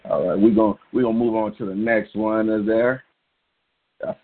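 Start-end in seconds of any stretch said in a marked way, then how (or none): 4.0-4.1 talking through hiccups; interrupted by hiccups. Real, not acted. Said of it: "Got, got the hiccups".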